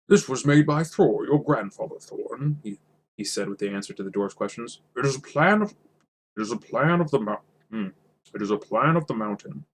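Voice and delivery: the wizard voice, set right. Acted. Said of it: "that's more of, like, a Thorin".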